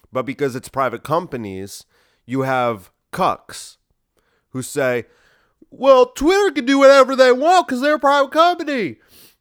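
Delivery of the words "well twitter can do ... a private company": fake Southern drawl, very high, loud and shrill. Quoting what some people say about Twitter, in a put-on Southern accent. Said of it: "I said it with a kind of like a Southern accent".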